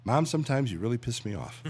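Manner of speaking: said through a laugh; laughing punchline. Retold or imitated. Comic Jesus after the rock, said through a laugh. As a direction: let the laugh break into the line. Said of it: "it goes".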